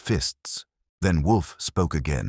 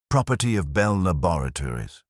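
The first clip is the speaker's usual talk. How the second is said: intoned. A narrator's reading. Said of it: "he intoned".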